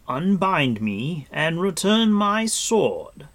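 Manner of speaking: loud, slow, high command; firm demand. Acted. Captive lord demanding his sword, firm and commanding. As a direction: demand it forcefully, word by word.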